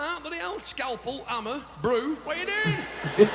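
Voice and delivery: mock alarmed outburst. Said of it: "I'm like".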